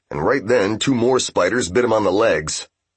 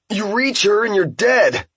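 urgent warning; 12 semitones higher than usual. Acted. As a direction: shout the warning across the room. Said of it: "said Ippei".

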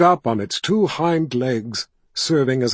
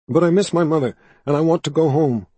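put-on pleading boy voice; 5 semitones higher, 6 dB louder, faster than usual. A narrator's reading.

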